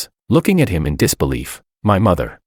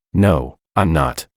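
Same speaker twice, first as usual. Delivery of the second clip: crying out; 3 semitones lower, slower than usual. A narrator's reading. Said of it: "crying out".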